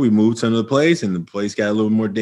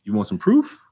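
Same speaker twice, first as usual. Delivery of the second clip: challenging; 11 semitones higher than usual. Retold or imitated. Teacher self challenging student.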